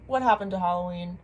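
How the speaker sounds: usual speaking voice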